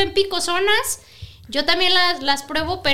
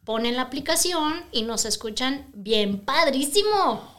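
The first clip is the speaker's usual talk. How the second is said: sexy radio voice; 3 semitones lower, 4 dB quieter than usual. Pretend. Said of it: "Con la voz sexy que tengo".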